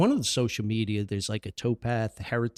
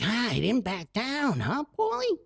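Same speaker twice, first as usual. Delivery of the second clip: pleased father; 10 semitones higher than usual. Retold or imitated.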